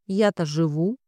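usual speaking voice

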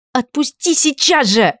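high, slowed, commanding bark; angry bark. A narrator's reading. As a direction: order him to let go. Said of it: "злобно рявкнула она".

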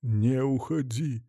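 slow, soft begging plea; quiet drawn-out entreaty; pleading. A narrator's reading. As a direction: stretch it out, softly imploring her to stay. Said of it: "смотрел ей вслед умоляюще".

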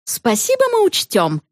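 curt, high-started retort; short irritated reply from the mother; mother snapping back. Acted. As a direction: snap back at the teacher. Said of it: "огрызнулась на учительницу мама".

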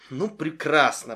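flat disappointed sigh; upset. Acted. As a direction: say it let down and falling. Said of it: "расстроенно проговорила она". (расстроенно)

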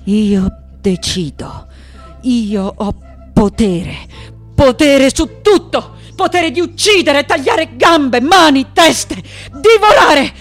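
slow declaration building to a high shout; ferocious power cry. Acted. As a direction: build from weighty words to savage yelling. Proclaims murderous power over everything. (grido feroce in crescendo)

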